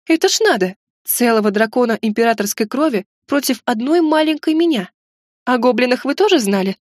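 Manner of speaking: outraged disbelief; indignant outrage. Acted. Outraged heroine.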